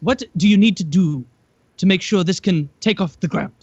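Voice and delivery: put-on reporter in a lightly done South African accent; a hint of a South African reporter. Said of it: "he had, like, the South African accent".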